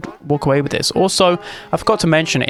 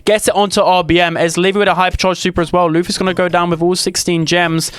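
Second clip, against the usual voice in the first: excited; 3 semitones higher than usual. Real, not acted. Caster hype on a big play.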